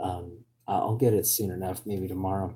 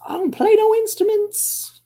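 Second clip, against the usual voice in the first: mock hick grumble; 9 semitones higher, 7 dB louder than usual. Mock hick outburst about guitar.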